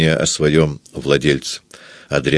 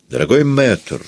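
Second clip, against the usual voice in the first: higher-pitched, beaming address; beaming greeting; 6 semitones higher than usual. A narrator's reading. Visitor greets the composer he admires, beaming. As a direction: greet the master through a broad smile. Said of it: "расплываясь в улыбке".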